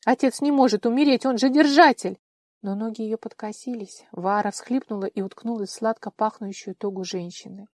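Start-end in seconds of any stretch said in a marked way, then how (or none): 0.0-2.2 higher and much louder, breaking denial; anguished cry. A narrator's reading. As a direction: refuse it with everything she has. Вара отказывается верить в смерть. (в отчаянии, громко)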